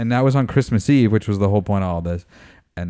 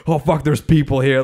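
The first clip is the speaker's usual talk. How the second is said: mock surprise; 6 semitones higher, 6 dB louder than usual. Amber's shocked thought, retold.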